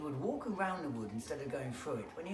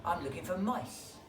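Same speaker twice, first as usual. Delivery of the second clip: snake voice; 2 semitones higher than usual. Acted.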